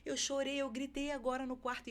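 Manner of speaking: lightly voiced son pouring it all out; mild imitation of the boy talking through tears; retold tearful rush. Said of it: "a falar tudo muito rápido e chorando".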